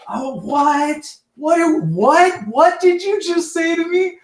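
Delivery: high-pitched, incredulous imitation; mock outraged woman. Dispatcher reacting to the caller's insult, mock outraged woman. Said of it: "she just went off".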